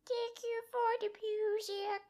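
soft unvoiced whisper. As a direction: breathe it like a child. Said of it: "the little baby boy is like".

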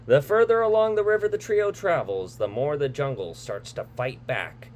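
dramatic trailer narrator voice; movie trailer read. Acted. Reads the movie synopsis.

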